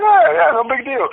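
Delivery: high, feigned nonchalance; imitating a would-be casual reply; trying to stay cool. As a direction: brush it off while secretly thrilled. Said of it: "trying to stay cool".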